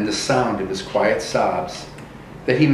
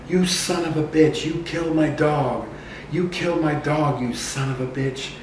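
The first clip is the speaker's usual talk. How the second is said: mild mock yell; 4 semitones higher than usual. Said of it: "screaming at me".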